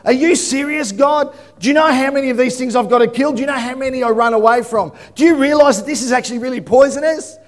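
indignant, quick protest; mock exasperated Moses. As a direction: rant at God like he's lost his mind. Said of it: "would have been like".

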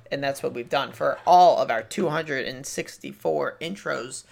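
rushed out in one breath; all in one breath. Real, not acted. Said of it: "I'm out of breath".

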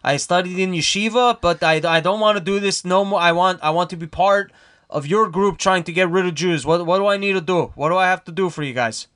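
put-on light Brooklyn Jewish accent, half normal; a thin put-on Jewish Brooklyn voice. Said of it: "I'll put on more of a Jewish voice".

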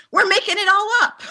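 high, laughing quote of a wise saying; playful high-pitched laughing quote. Retold or imitated. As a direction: giggle it out high above your voice. Quoting mentor with laughter.

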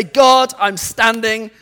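bold prayer declaration. Shown as a demonstration. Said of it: "Identify it and say".

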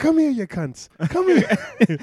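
high, loud call across the bar; mock drunk call. Drunk dad hollering the lads over, loud and high. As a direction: haul the lads over with a bellow.

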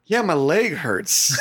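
slow, chuckling admission; sheepish, laughing. Retold or imitated. Quoting the stung buddy to friends, slow and laughing. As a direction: admit it through a laugh. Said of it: "He goes".

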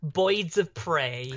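put-on slow, drawn-out Harley Quinn accent, "Boyds" for Birds. Shown as a demonstration. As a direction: stretch it out like Harley Quinn's Brooklyn-style accent. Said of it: "start off saying something like".

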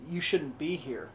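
slow, soft, low warning; low looming threat. Retold or imitated. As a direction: murmur it slowly like a quiet threat. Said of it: "in the classic voice".

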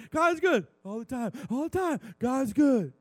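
high, loud preacher's proclamation; emphatic declaration. Acted. Preacher proclaiming a familiar church saying, emphatic shout. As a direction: call it out emphatically at full volume. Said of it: "Can we still say emphatically".

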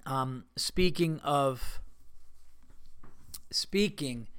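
talking between sips of hot coffee; slow words around a coffee sip; while sipping coffee. Real, not acted. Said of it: "Excuse me while I sip my coffee".

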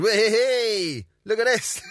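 hammed-up teen flashing his mate; whooping show-off. Lad shows off to friend: high, whooping. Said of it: "just went".

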